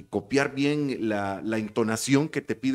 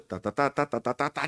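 miss the tune, staying near usual pitch on "ta"; failed copy of intonation. Shown as a demonstration. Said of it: "Y yo estaba haciendo el".

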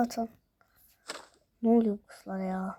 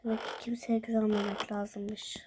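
whispered sulk; 6 dB quieter than usual. Acted. Sulking after being ignored.

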